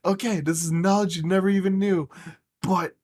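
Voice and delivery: loud, high comic punchline; retold triumph. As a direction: build to the good news, nearly laughing. Retold triumphant punchline, laughs after.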